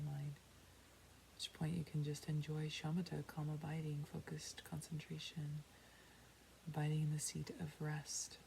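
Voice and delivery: unhurried meditation guide with long pauses; guided meditation. Real, not acted. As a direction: guide them inward, calmly. Leads a meditation.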